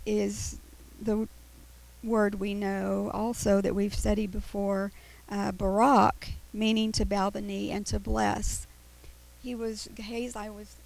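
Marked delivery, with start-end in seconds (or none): 2.0-10.8 whistling s. Real, not acted. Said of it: "my teeth keep whistling".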